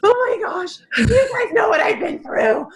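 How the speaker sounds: high, laughing through the words; overjoyed laughing exclamation; laughing with joy. Retold or imitated. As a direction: burst out in joyful laughter. Joyful reunion, retold exclamation.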